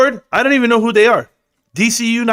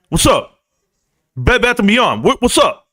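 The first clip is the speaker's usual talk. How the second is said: mock photo pose, higher; 6 semitones higher, slower than usual. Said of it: "That's how I'd be posing for pictures".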